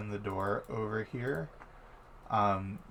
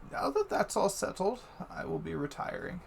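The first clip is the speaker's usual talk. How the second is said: lightly voiced higher-pitched dignitary; hint of a formal leave-taking; Menthor; 8 semitones higher than usual. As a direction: wrap up business in a raised character voice. Menthor takes his leave.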